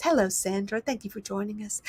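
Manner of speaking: a hint of a put-on host voice, only lightly changed; mock actress voice. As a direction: play a polite show host without moving far from your own voice. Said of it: "I'm gonna be an actress now and just act like someone else".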